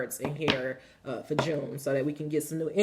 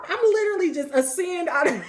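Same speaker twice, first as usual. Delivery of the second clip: usual speaking voice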